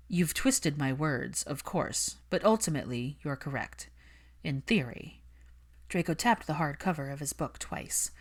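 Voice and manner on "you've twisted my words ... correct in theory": slow, lowered, cool drawl; measured and unbothered; lightly voiced Malfoy. Malfoy correcting Hermione, slow and cool.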